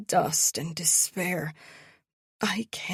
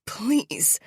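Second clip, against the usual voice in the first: rasp; 4 semitones higher, 3 dB louder than usual. Acted. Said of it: "I rasp".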